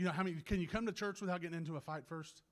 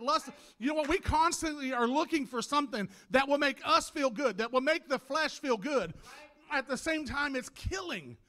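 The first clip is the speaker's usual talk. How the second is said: emphatic, raised preaching voice; impassioned preaching; 5 semitones higher, 7 dB louder than usual. Real, not acted. Preacher warning church about fleshly desire, impassioned. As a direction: hammer the warning at the congregation.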